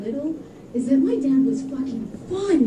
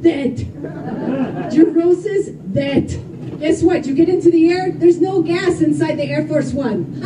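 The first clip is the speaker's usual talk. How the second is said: loud laughing rant; 2 semitones higher, 4 dB louder than usual. Real, not acted. Comic ranting on with the bit.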